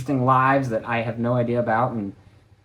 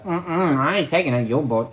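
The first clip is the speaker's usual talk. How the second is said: sassy lady impression; 3 semitones higher than usual. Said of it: "that, like, sassy".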